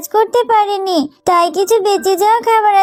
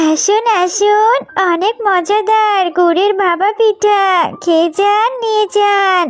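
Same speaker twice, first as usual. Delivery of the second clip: street vendor calling; slower than usual. Acted. Mina selling pitha at her stall.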